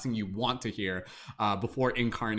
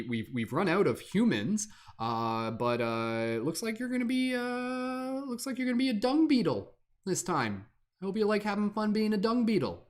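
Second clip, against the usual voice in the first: higher, chirpy office-clerk voice delivering bad news; cheery higher clerk voice, mock apologetic; afterlife supervisor; 5 semitones higher than usual. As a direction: play a breezy bureaucrat announcing a dung beetle rebirth. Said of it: "I'll do this and be like".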